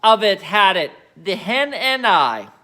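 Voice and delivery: high, loud, slow shout from the rooftop; Grandma shouting. Acted. Grandma shouting down from the roof to Mary, loud and slow. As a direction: bellow it down, thrilled. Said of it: "Grandma shouted".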